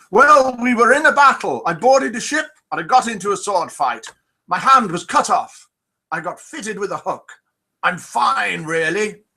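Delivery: hammed-up pirate that misses the accent; a pirate in a joke, voiced half-heartedly high; failed pirate accent. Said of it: "my pirate accent".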